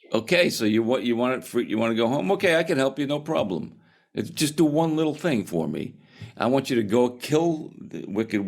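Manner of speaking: Muji. Acted. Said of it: "so Muji says to them".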